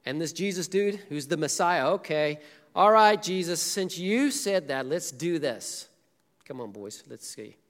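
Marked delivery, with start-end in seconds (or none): 1.9-5.9 reluctant grumbling, slowing down; grumpy. Retold or imitated. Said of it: "I'm thinking that Peter's grumpy". 6.4-7.6 muttered under the breath; grumbling aside. Retold or imitated. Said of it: "Peter's grumpy".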